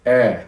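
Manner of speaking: "Eh" as an open e like "E H"; Italian Eh. Shown as a demonstration. Teacher showing the Italian E as an open Eh. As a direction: say "Eh" open, not closed. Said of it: "with the E, it would be".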